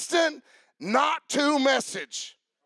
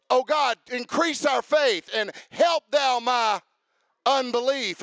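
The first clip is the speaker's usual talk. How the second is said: preacher crying out to God mid-sermon; shouted prayer. Acted. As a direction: call out the prayer with fervor. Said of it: "prayer cried out".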